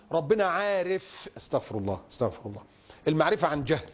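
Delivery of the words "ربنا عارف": عارف drawn out slowly; slow quoted "ربنا عارف", dwelling on عارف; wrong wording example. Shown as a demonstration. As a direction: stretch the long vowel of عارف as the phrase to avoid. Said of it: "اوعى تقول".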